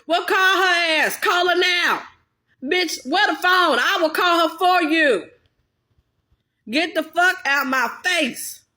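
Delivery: high, loud, fed-up snapping back; angry retort. Acted. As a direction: tell him off, done with his nonsense. Angry retort to desperate men.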